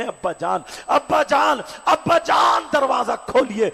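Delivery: calling through the door. Acted. Fatima calling her father through the shut door, rising calls. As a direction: call out again and again, each one stronger. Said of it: "آواز دیتی ہے".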